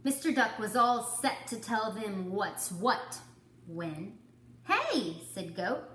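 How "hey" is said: calling out. Acted. Goat calls out.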